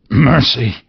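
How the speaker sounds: frightened shout for mercy; pleading cry. Acted. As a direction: beg on your knees. Scrooge falls on his knees.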